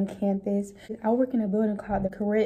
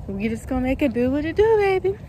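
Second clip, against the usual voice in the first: hyped up; 4 semitones higher, 3 dB louder, faster than usual. Real, not acted. Hyped sign-off to viewers.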